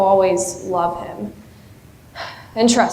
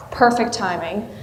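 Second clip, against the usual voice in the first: softer, musing repeat of "Perfect timing" with a rising end; wistful echo; 3 semitones lower, 3 dB quieter than usual. Acted. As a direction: echo "Perfect timing" to yourself, half ironic.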